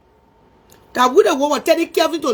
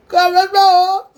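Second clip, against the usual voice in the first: crying; slower than usual. Real, not acted. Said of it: "stop crying".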